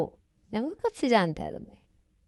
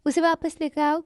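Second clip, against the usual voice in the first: urgent demand; 6 semitones higher than usual. Acted. Friend demands the brother fetch his sister, urgently. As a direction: insist he bring her back.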